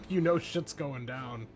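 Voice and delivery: normal talking voice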